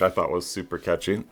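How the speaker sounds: talking through a burp; words with a small burp. Real, not acted. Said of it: "Excuse me, I'm burping".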